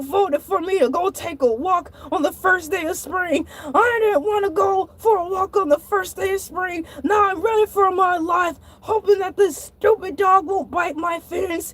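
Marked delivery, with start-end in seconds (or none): 3.7-11.2 shouting. Retold or imitated. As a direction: yell it while running. Ranting while fleeing dog.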